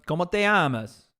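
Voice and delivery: put-on playful Spanish accent on the phrase; joking stab at a Spanish accent. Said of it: "I'm doing an accent".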